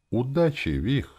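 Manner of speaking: important. A narrator's reading. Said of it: "ответил он важно".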